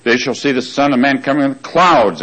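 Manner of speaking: "clouds" leaned on at the end of the verse; scripture reading with "clouds" emphasized; stress on clouds. Shown as a demonstration. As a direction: read the verse, putting weight on "clouds". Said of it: "I emphasize clouds".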